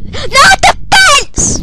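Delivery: high, slow, loud groaning cry; dreading cry. Real, not acted. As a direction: wail in dread. Dreading the fence again.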